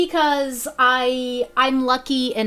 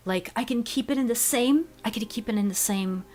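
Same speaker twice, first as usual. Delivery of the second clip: airy; 3 dB quieter than usual. Shown as a demonstration. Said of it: "make it more airy".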